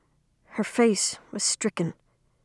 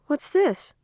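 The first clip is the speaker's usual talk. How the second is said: sudden question; 8 semitones higher than usual. A narrator's reading. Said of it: "she asked suddenly".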